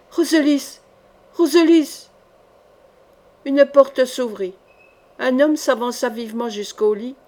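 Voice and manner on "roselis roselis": appel plus fort et plus aigu qui monte; elle crie le nom de sa fille, de plus en plus fort; cri. A narrator's reading. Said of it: "Elle cria". (cri, de plus en plus fort)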